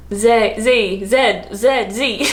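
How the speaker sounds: Z flip-flopping between ZEE and ZED; flustered zee-zed. Retold or imitated. Reading out a barcode at work, flustered zee-zed. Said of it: "freaking out".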